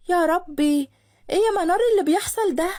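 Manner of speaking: high, rushed cry of dismay; alarmed shock. A narrator's reading. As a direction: react in alarm, pitch jumping up. Shocked friend reacts to fight. (مصدومة ومخضوضة)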